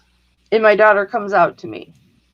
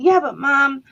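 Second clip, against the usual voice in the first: high whiny imitation of a rebellious teen; mock teen protest; 5 semitones higher than usual. Mother imitates daughter's planned protest, mock whiny teen. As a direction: mimic the protest speech she must have rehearsed. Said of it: "she must have planned this huge".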